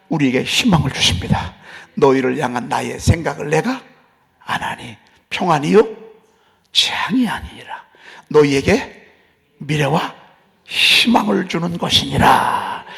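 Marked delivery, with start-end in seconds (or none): 1.9-12.8 scripture called out in firm, separated phrases; proclaiming. Acted. Watchman crying out God's promise of hope, emphatic proclamation. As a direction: proclaim it, stretching the final phrase long. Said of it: "이렇게 계속 외치라 그 말입니다".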